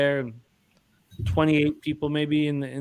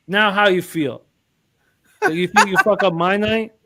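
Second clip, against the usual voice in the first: mock gloating taunt; 4 semitones higher, 5 dB louder than usual. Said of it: "Joe goes".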